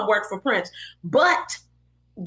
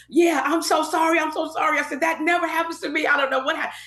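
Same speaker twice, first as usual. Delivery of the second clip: higher-pitched, mock-panicked apologizing; flustered apology; 5 semitones higher than usual. Hairdresser apologizing to a drenched singer, flustered.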